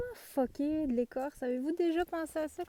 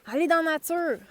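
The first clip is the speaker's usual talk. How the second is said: calling out; 3 semitones higher, 4 dB louder than usual. Retold or imitated. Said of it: "souvent je dis ça dans mes tirages".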